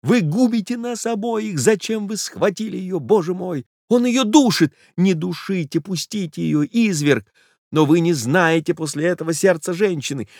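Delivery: voiced stage whisper of alarm; panicked whisper. A narrator's reading. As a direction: beg frantically in a strained high voice. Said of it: "прошептал молодой человек".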